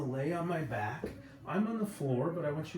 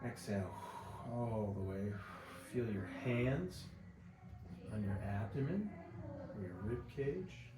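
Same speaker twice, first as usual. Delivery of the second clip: calm, unhurried relaxation-exercise voice; softer than chatty talk, with long pauses; guided body scan; 5 dB quieter than usual. Acted. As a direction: guide them gently through each breath. Leads breathing body scan.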